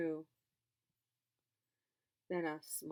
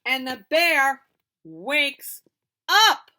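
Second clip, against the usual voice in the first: dramatic reveal; 4 semitones higher, 13 dB louder, slower than usual. A narrator's reading. Bear wakes, dramatic reveal.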